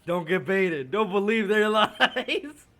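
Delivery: loud, high, slow laughing plea not to fall for it; laughing loud warning. Real, not acted. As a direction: shout it while cracking up.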